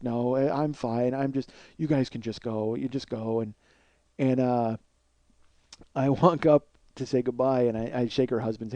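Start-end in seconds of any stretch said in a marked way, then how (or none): 0.0-3.4 low, soft, deflated brush-off; small, downcast mumble; subdued hostess. Retold or imitated. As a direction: imitate a miserable hostess quietly sending guests away. Upset hostess dismissing guests, retold.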